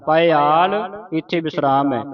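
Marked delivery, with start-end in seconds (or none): 0.1-0.7 ਪਾਇਆਲ said as paiaal, with a long final aa; careful pronunciation. Shown as a demonstration. Teacher spells and says ਪਾਇਆਲ for the class. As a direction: spell out ਪਾਇਆਲ letter by letter, then say it. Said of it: "ਐੜੇ ਕੰਨਾ ਲੱਲਾ".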